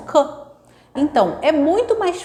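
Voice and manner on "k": k said alone, a short hard k; just the bare k sound; isolated k sound. Shown as a demonstration. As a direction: demo k. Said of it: "ela omite o início".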